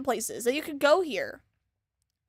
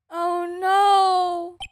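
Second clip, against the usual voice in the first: alarmed; 5 semitones higher, 4 dB louder than usual. Real, not acted. Dreading discovery.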